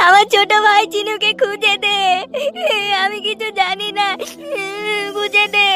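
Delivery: tearful begging for help; crying plea. Acted. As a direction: plead through tears for the lost brother. Boy begs for lost brother. (কাঁদতে কাঁদতে অনুনয়)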